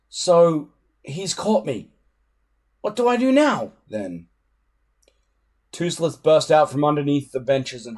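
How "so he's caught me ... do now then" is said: put-on a boy caught and wondering what now; anxious inner thought. A narrator's reading. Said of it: "Hiccup thought".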